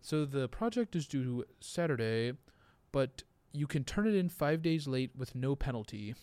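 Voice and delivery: slow, drawn-out teacher voice; lightly voiced professor, slow. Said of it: "he goes".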